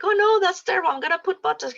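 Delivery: high, loud mock alarm about a wrinkle; alarmed exclamation. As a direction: gasp as if a new wrinkle is a disaster. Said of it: "And it's like".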